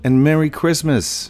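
cheery holiday shout. Real, not acted. Festive greeting to viewers.

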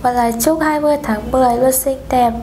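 polite phone operator voice; formal hotline greeting; customer service voice. Pretend. Prank call as Viettel operator.

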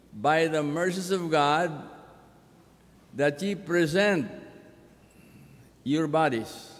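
deliberate, weighty phrasing; measured scripture reading. Acted. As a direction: lay out each phrase with a pause.

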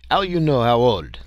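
put-on frantic Frenchman, lightly accented. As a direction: press him hard, Frenchman, frantic. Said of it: "Leroy was frantic".

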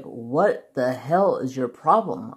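slow, drawn-out exasperation; exasperated boss. Retold or imitated. Boss to giggling employee, exasperated. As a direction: stretch it out like a boss losing patience.

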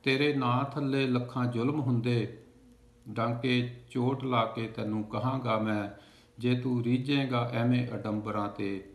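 measured, projected verse recital; declaimed Punjabi poetry in even cadence; poem recitation. Acted. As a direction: recite it line by line with a steady beat. Recites a poem after introducing it.

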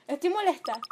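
repeated fed-up "molesta"; real annoyance; angry. Real, not acted.

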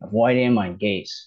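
slow, careful reading of the English text for learners; slow read-aloud. Shown as a demonstration. A teacher slowly reading the English story to learners. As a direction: read each word out slowly and clearly.

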